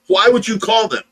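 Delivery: the nurse's fit builds as she repeats "Why would you call them?" up high; retold fit, rising. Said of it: "she just threw a fit about".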